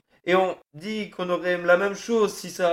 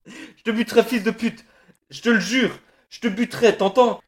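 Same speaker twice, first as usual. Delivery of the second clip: sobbing threats; 4 semitones higher, 3 dB louder than usual. Acted. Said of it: "Les sanglots saccadaient ses jurons".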